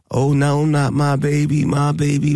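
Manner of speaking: high, hammed-up wail of a parent; mock wailing parent. Mocking a parent who waited too long, high hammed-up wail. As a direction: mimic a parent crying not my baby.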